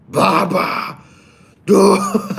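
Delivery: high, strained put-on voice for Baba; high character impression. Shown as a demonstration. Streamer trying a Baba impression for chat, high and strained. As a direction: push the voice up and pinch it. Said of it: "I'll try again".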